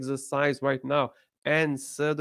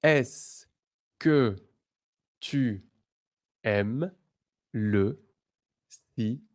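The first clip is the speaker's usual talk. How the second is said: word by word; 2 semitones lower than usual. Shown as a demonstration. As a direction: leave a gap after every word. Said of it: "Second one".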